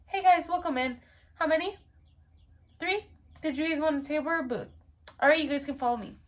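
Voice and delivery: high, bright-paced hostess welcome, a bit fast; chirpy hostess. Pretend. Hostess greeting a party of three, upbeat and high. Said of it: "if I was a hostess".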